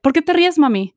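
put-on child asking. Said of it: "Paula's like".

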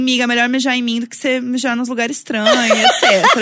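laughing through a quote. Retold or imitated. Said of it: "eu assim".

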